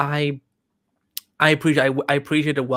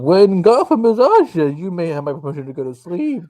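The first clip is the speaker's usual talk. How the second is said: dragon voice; 4 semitones higher, 10 dB louder than usual. Pretend. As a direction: growl out a menacing decree. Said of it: "The Dragon Bane voice is back".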